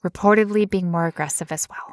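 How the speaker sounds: eerie whisper, like a creeping menace; spooky whisper. Pretend. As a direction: breathe it out like a horror trailer. Joins spooky whisper game.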